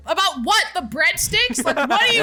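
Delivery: annoyed retort. Retold or imitated. Friend at restaurant, reply.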